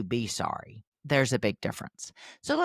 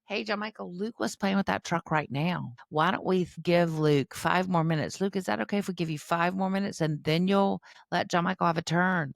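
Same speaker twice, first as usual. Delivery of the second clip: parent negotiating gently; 4 semitones higher than usual. Shown as a demonstration. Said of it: "you might wanna say".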